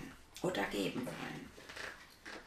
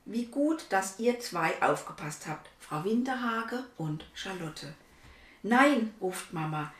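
put-on lively read-aloud voice for children; story narration. A narrator's reading. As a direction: tell the story to little listeners. (Vorlesestimme für Kinder)

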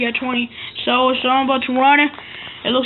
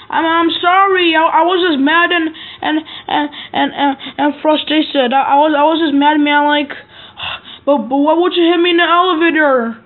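pretend apology; 3 semitones higher than usual. Kid plays out an elevator quarrel, pleading. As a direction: whine the apology like a scolded kid.

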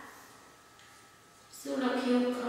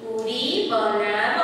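slow read-aloud; slower than usual. Shown as a demonstration. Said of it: "બીજું વાક્ય આપણે શું લખ્યું આખું".

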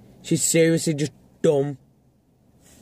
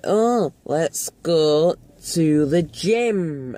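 imitating mum; much slower than usual. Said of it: "My mom's like".

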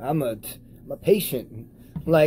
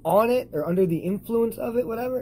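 scornful quoting; 8 semitones higher than usual. Real, not acted. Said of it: "I hate that term".

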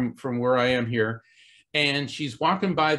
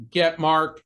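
spirit box voice; 5 dB louder than usual. Retold or imitated. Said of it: "once again, it goes".

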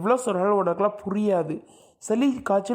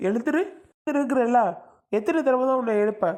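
impatient waking; 4 semitones higher than usual. Acted. Husband angrily waking sleeping wife.

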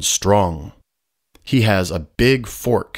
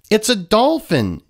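1 skunk yells; 11 semitones higher than usual. A narrator's reading. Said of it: "yells the skunk".

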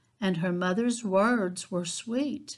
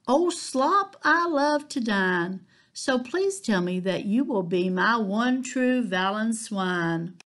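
delighted piglet; 3 semitones higher than usual. Acted. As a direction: squeal it out like a happy pig finding food. Polly delighted with the slop.

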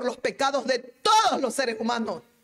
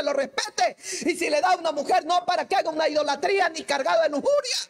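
ordinary talk

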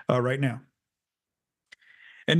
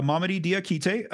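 whole name run together quicker; faster; 4 semitones higher, slower than usual. Shown as a demonstration. Podcaster repeating the new player's name, faster. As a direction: say Mamadi Diakite in one smooth go. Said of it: "then I'll try to get faster".

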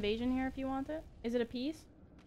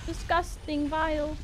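mock angry shout; 8 semitones higher, slower than usual. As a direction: taunt the rat fiercely. Hunting a rat in game.

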